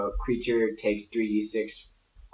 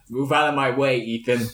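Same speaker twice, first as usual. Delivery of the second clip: in-character command; 3 semitones higher, 3 dB louder than usual. Acted. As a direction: order a teammate aside, a bit loudly. In-character order to a teammate.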